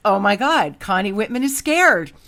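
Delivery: loud retold exclamation of discovery; retold astonished teasing. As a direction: call out a friend, loud and amused. Friend's teasing realization retold.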